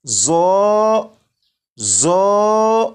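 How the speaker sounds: زو with a buzzing z; wrong, buzzing زو; whistled زو. Shown as a demonstration. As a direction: say زو with a hissing z. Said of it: "سی ٹی کی آواز کے ساتھ پڑھیں".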